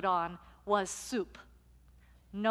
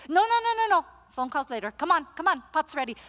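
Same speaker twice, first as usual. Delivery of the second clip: much higher, loud no's; insistent high protest; 5 semitones higher, 4 dB louder, much faster than usual. Retold or imitated. Luisa overrules the busy pastor, high and loud. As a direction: brush the excuse aside.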